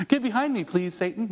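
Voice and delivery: mock-polite, pitch lifted on get; a sweet fake please to Satan. Shown as a demonstration. Preacher mocks polite version of the rebuke. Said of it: "No, you don't".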